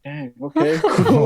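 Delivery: laughing. Retold or imitated. Impressed reaction to advisor.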